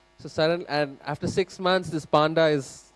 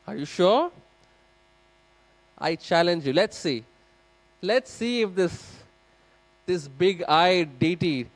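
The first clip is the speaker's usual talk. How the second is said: skeptical challenge; 3 semitones higher, 3 dB louder than usual. Acted. Modern husband challenging the temple priest, scoffing and daring. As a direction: dare him to prove it, half sneering. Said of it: "this guy becomes super skeptical".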